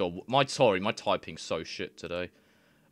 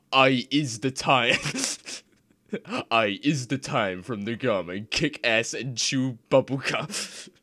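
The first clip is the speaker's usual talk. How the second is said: laughing; 3 semitones higher, 4 dB louder than usual. Real, not acted. Reading garbled translation, laughing.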